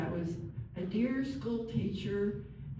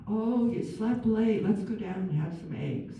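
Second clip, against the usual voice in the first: friendly tone of voice; 3 semitones higher than usual. Shown as a demonstration. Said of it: "So maybe it could be".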